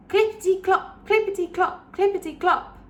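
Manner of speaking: hoofbeat sound words. Acted. Galloping horse sound words.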